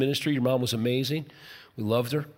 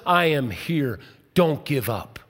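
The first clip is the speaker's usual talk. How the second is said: gentle reassurance; 3 semitones lower than usual. Retold or imitated. God answers the desperate believer, gently reassuring. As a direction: soothe the one about to give up.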